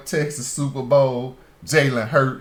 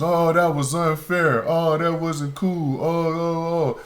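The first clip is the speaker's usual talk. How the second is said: mock whining crowd; 4 semitones higher than usual. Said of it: "Everybody be screaming to the rafters".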